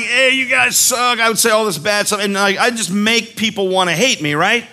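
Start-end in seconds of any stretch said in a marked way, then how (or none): 0.0-1.2 slow mock-villain taunt shouted at campers; bad guy taunt. Camp bad guy taunting the kids, slow shout. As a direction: jeer at the crowd like a camp villain. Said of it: "I came out there, I'm like".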